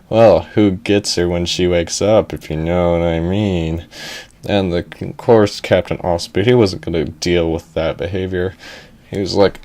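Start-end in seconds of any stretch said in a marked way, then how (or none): 0.1-3.9 lowered, mock-suggestive voice; nudge-nudge insinuation; sly crewmate. Crewmates talking about the rescued girl, sly lowered voice. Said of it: "laughing a little bit".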